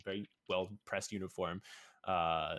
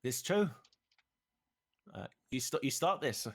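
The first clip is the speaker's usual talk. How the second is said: stern knight; 6 semitones higher, 5 dB louder than usual. Acted. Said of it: "she says".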